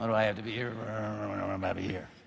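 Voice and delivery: very low, under-the-breath grumbling mutter. Showing how people mutter at Thanksgiving dinner: muttering. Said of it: "We mutter".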